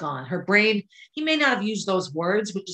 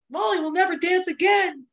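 much higher, half-hearted mock yell; retold yell; 10 semitones higher than usual. Mother imitating daughter yelling the news in the hall. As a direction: call it out like a child to the hall. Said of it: "she yells out".

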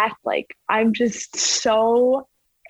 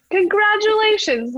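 imitating coach; 11 semitones higher, 3 dB louder than usual. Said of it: "And he's like".

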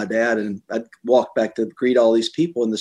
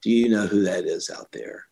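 gentle voice of God. Retold or imitated. Voice of God retold.

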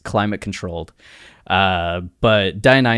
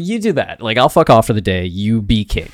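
breezy king; 4 dB louder than usual. Retold or imitated. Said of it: "he's just like".

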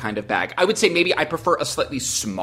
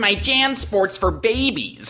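judgmental; 6 semitones higher, slower than usual. Retold or imitated. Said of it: "I was speaking in the judgmental voice of mine peers".

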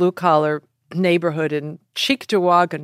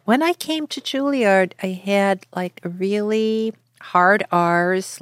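raised pitch, drawn-out Midwest R's; hard-R Midwest accent; 4 semitones higher, slower than usual. Shown as a demonstration. Actress recalling how she talked at Juilliard, in a hard-R Midwest accent. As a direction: lean into the old Midwest R's. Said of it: "like, really Midwest".

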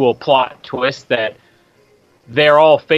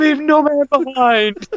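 war cry; 11 semitones higher, slower than usual. Acted. Acted battlefield rescue.

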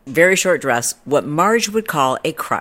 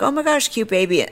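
high-pitched fake compliment; mock gushing; 8 semitones higher than usual. People making small talk to parents, mock high gush. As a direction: coo politely over someone's baby, hammed up. Imitating people praising a baby.

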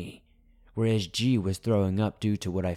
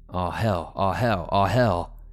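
repeated, growing louder each time; building dread; 6 dB louder, slower than usual. Acted. Backing away from the railing, the narrator repeats it in rising dread. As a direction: let the panic rise with each repeat. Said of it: "I said slowly".

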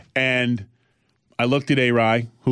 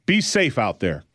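police voice. Retold or imitated. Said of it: "That's my police voice and get a job voice".

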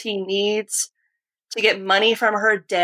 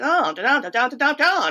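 Katharine Hepburn; 4 semitones higher than usual. Retold or imitated. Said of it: "whenever she talks, you know, Katharine Hepburn is like".

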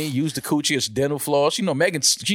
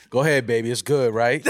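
tender voice; 3 semitones lower than usual. Retold or imitated. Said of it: "use that tender voice".

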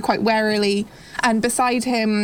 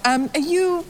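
higher, probing voice; wary fisherwoman; 6 semitones higher than usual. Acted. Woman asks the stranger where they come from, higher and curious. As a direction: size up the stranger.

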